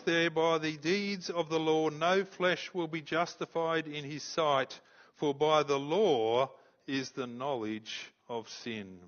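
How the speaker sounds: slow, weighty scripture reading. Acted. Preacher reads verse twenty to the congregation, slow and weighty. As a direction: lay each phrase of the verse down slowly.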